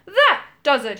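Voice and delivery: loud furious outburst; roared. Acted. Goo-covered magician roaring at Moongobble, loud and angry. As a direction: explode at last, fed up. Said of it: "he roared".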